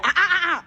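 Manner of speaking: alarmed ah. Retold or imitated. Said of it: "I started saying".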